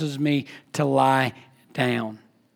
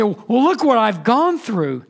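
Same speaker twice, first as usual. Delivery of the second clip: slow, higher-pitched imitation of a grumbler; mock griping; 4 semitones higher, slower than usual. Preacher imitating someone grumbling at God, griping. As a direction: complain with drawn-out self-pity, lightly acted. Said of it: "we start grumbling and we griping".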